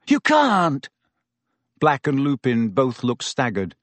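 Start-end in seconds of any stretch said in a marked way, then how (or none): 0.1-0.9 high, urgent protest; breathless insistence. A narrator's reading. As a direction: plead urgently, pitched up. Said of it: "he said breathlessly".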